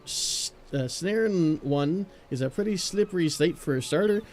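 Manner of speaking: lightly put-on Irish lilt; a loose Celtic brogue for the old sailor; a hint of Scottish brogue for an old sailor; Irish or Scottish accent. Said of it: "It sounds a little bit more Irish, maybe a Scottish".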